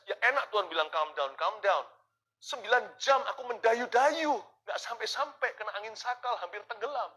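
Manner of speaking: a tired rower protesting to God, loud and complaining; mock protest. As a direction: grumble back loudly at God. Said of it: "Mungkin kita bisa protes".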